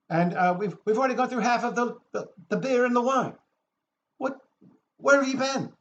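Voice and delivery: high, loud party-guest complaint; retold screaming. Party guests scolding the late arrivals, imitated screaming. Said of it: "and everybody screams".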